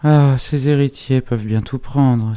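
indignant cry. A narrator's reading. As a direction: protest in a high, wounded voice. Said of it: "dans un accès d'indignation sauvage". (cri d'indignation aigu, sans forcer)

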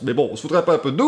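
quick mock Belgian accent; light Belgian accent, fast and teasing. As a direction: toss it off in a jokey Belgian accent. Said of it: "Ils sont belges?".

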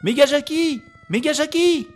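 high loud fan cheer; excited cheering. Real, not acted. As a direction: cheer the hero's name.

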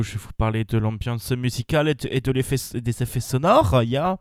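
put-on French with a German accent. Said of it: "pourquoi prends-tu un accent allemand".

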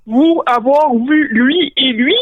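slow, drawn-out orc voice; lumbering orc questioning, each word stretched; Ugluk. Acted. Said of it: "dit Ugluk". (voix d'orque lente et traînante)

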